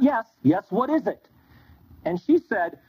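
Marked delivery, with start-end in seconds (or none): 0.0-1.3 impatient brush-off. Shown as a demonstration. Rabbi brushing off the woman's question, impatient.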